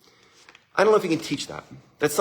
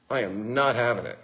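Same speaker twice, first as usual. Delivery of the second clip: stern listener; 5 semitones lower, 5 dB quieter than usual. Retold or imitated. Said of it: "sitting there like this".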